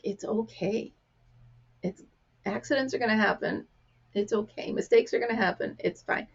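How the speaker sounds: hushed, soothing retold comfort; quietly calm someone who feels bad; soft reassurance. Telling the upset girl accidents happen, soft and reassuring.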